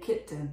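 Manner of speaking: kitten in its everyday form, second vowel reduced; natural pronunciation. Shown as a demonstration. Teacher putting the sounds back together, natural pronunciation. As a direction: say kitten as KIT-n, low and quick. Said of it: "本当はkitten".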